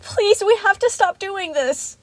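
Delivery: high, slow, drawn-out begging; loud, helpless wail; whimpering plea. A narrator's reading. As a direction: beg through rising distress. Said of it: "Chica whimpered".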